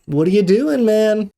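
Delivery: high-pitched exasperated appeal. Retold or imitated. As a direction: plead in disbelief with the gym slacker. Ranting at gym phone users.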